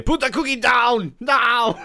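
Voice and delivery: high, slow, loud movie shout; Arnold Schwarzenegger. Acted. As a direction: bellow it as a hammed-up action hero. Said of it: "he quotes all his famous things".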